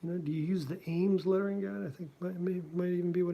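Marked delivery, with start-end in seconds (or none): 0.0-1.9 higher voice voicing Schulz asking; raised mock voice for Schulz. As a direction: play the older cartoonist quizzing him. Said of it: "But he said".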